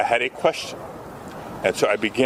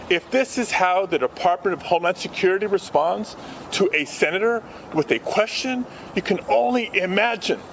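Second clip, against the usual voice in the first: rising higher and higher, indignant; impassioned outrage; 5 semitones higher than usual. Real, not acted. Senator protesting to reporters, impassioned and rising. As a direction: build the outrage up line by line. Senator denouncing treatment at press conference.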